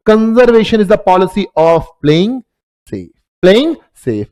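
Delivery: spelling out each word slowly for notes; slow dictation. Acted. Teacher dictating a definition to students, very slow and deliberate. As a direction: dictate it so students can write.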